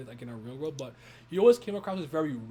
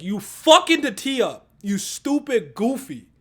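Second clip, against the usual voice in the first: imitating Batman scolding; 7 semitones higher, 12 dB louder, slower than usual. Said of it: "and he's like".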